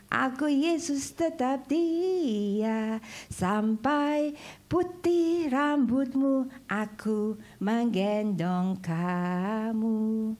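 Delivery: very slow, gentle and tender; tender promise. Acted. Preacher voicing God's promise to his people, tender and slow. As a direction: speak it like God holding a child.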